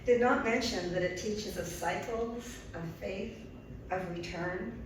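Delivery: measured poetry reading with pauses between phrases; poem reading. Acted. Poet reads her moon poem to the audience, measured recital. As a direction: let each short phrase stand on its own.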